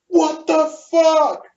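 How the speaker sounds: high, slow, stuttering disbelief; re-enacted speechless shock. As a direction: break into high stray syllables, lost for words. His own stunned reaction, re-enacted.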